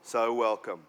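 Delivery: rhythmic, dramatic poetry performance; spoken word poem. Acted. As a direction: perform it like a slam poem, building and dropping.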